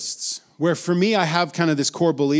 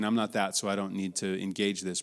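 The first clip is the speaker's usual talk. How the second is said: quiet mutter; 5 semitones lower, 6 dB quieter than usual. Retold or imitated. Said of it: "looking at an artist and saying".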